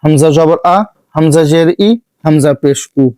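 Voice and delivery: short vowels আ, ই, উ said crisply with no drawing out; teacher's Quran reading drill; recitation drill. Shown as a demonstration. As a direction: recite each harakat quickly and clearly. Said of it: "আমাদের উচ্চারণ শুরু করা যাক".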